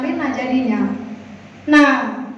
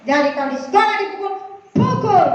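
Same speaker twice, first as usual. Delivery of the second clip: cepat, menandaskan pukul; oma tegas; 4 semitones higher, faster than usual. Retold or imitated. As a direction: nasihat nenek yang galak. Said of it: "kata omanya". (oma memerintah cucu dengan tegas dan cepat)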